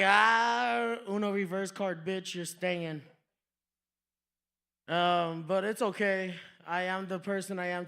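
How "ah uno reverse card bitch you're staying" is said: loud gloating start; hammed-up gloat; mock taunt. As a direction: taunt him with the reverse card. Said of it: "They were like".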